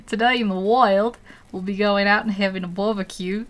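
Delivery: attempted Aussie wildlife-host accent; Australian accent. Shown as a demonstration. Streamer mimicking an Australian presenter, shaky-guess Australian accent. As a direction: put on a rough Australian accent. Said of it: "Is that what they sound like?".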